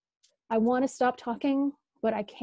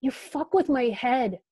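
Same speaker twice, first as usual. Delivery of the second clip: whisper yell; 3 semitones higher, 6 dB louder, slower than usual. Acted. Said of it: "I whisper yell back".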